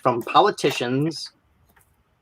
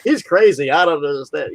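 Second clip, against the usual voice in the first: mock dumb politician; 3 semitones higher, 3 dB louder than usual. Politician dodging the opponent in debate, lightly voiced innocent confusion. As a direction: play dumb through a weird smile. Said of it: "they always had this weird smile".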